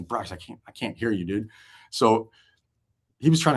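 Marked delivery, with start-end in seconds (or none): 0.0-1.5 straining to hear. Retold or imitated. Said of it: "you have to get right up".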